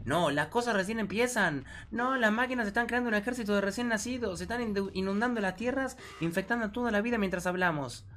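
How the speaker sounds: high, urgent warning voice; voiced game character. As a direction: warn them the world is falling. Reads game dialogue aloud.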